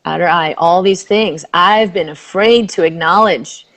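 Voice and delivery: soothing tapping script; guided tapping. Acted. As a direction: lead the phrase gently for her to repeat.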